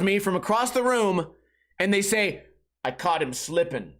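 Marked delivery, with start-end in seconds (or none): 2.8-3.9 low, soft mumbled mimic of a fan; lightly voiced smug photographer; low mocking mimic. Mimics people taking photos.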